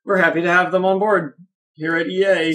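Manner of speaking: canned corporate robot voice; flat scripted PR tone. Retold or imitated. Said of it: "My robot voice slipped out".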